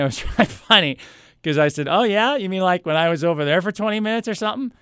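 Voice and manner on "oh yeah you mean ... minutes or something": higher, quickening questioning retort; mock incredulity. Ignored customer needling the clerk, high mock-innocent question. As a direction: feign innocent surprise, pitch up and rushing.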